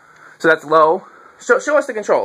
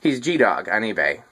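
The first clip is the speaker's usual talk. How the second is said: low, slow, faintly disdainful; mild disdain; 5 semitones lower, 4 dB quieter, slower than usual. Real, not acted. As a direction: say it slowly with a little disdain. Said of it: "a little bit of disdain there".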